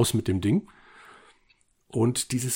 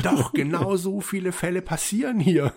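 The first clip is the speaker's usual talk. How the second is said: mock indignant character voice; 8 semitones higher than usual. Acted reply to the quote.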